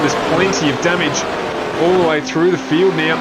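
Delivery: excited. Real, not acted. Commentating chaotic crash aftermath.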